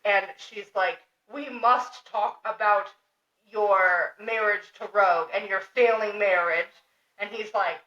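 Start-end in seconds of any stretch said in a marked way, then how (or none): 1.3-6.7 slow, weighty imitated lecture; measured, deliberate, imitating a serious talk; mock-solemn confrontation. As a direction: spell it out slowly, word by word. Acted confrontation about a marriage.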